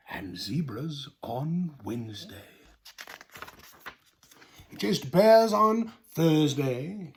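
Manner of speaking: slow, drawn-out storybook voice; reading to children. Acted. Host reads the lion book aloud to children, slow storybook voice. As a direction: lean into each line like a bedtime story.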